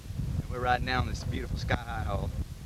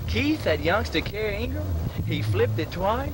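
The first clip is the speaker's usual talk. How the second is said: excited mock sportscaster; 9 semitones higher than usual.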